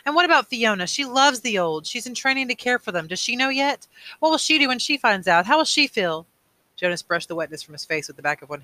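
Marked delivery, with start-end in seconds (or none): 0.0-6.2 high, urgent string of questions; distressed questioning. A narrator's reading. Boy fearing for his friend Fiona, distressed urgent questions. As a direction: plead for answers with voice raised.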